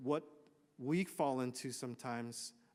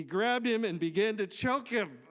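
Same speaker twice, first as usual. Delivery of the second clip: emphatic; 6 semitones higher, 6 dB louder than usual. Acted. Preacher dramatizes the choking.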